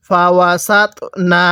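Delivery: syllable-by-syllable recitation, measured and drawn out; slow model reading. Shown as a demonstration. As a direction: recite slowly for learners to copy. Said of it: "আমার সাথে পড়ুন".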